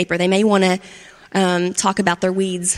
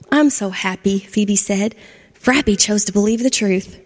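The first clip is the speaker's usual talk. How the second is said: gentle storybook narration with voiced characters; reading to children. A narrator's reading. Storyteller reading to kids, lively and gentle. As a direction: tell it like a bedtime story to a class.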